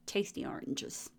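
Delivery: breathy whisper on Tasty oranges. Shown as a demonstration. Repeats the word in a whisper.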